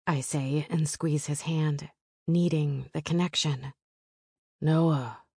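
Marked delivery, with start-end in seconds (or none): 4.6-5.2 gritty baritone. Acted. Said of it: "his voice that sexy, gritty baritone".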